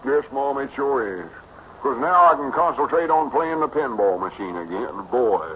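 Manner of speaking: put-on eager, simple-hearted boy talk; Cedric, eager boy. Cedric telling of pinball plans, eager and boyish.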